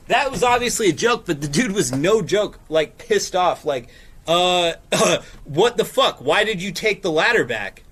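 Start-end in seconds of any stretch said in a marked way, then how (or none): 4.3-7.8 mock-angry demand, only slightly raised; hammed-up indignant retelling; imitated really mad. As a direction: act out a pissed-off guy's outrage. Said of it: "Like, really mad".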